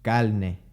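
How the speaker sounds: calne with l for r; Puerto Rican l. Shown as a demonstration. Teacher imitating Puerto Rican speech. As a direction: say carne as calne. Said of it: "they would say".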